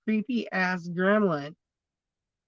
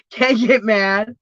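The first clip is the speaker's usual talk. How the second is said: laughing; 3 semitones higher, 8 dB louder, slower than usual. Real, not acted. Laughing about being bitten.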